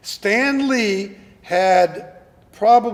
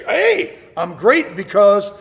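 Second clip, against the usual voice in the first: mock boastful brag; 7 dB louder, slower than usual. Mocking someone bragging online.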